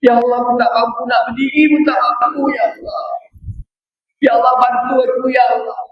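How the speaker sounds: acted weeping prayer of a sick man; crying prayer. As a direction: sob out a plea to God. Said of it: "nangis-nangis".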